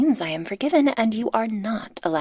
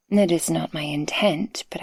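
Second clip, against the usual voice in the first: tender whisper. Acted. Speaker confessing love to the listener, tender whisper. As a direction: open your heart in a hush.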